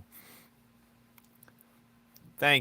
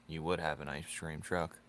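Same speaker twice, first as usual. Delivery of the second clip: muttered tease; 4 semitones lower, 5 dB quieter than usual. Acted. Teasing viewer, said twice.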